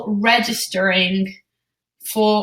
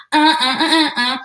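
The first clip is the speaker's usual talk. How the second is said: braggy taunt sounds; 6 semitones higher, 3 dB louder than usual. Retold or imitated. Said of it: "a little bit braggy".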